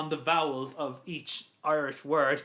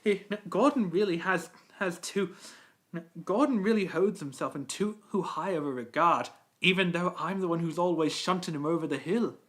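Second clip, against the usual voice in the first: lightly voiced, understanding engine; a hint of character in a measured complaint; Edward. Engine confiding about Gordon, in a light Edward voice. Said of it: "a good impression of Edward".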